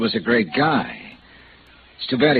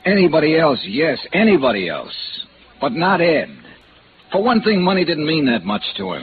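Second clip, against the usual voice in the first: protest; 6 semitones higher than usual. Acted. Refusing to believe friend stole.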